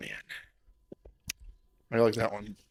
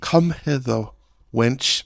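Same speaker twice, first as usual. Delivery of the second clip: mock Shakespearean; 2 semitones higher, slower than usual. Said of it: "that's what I feel like they speak".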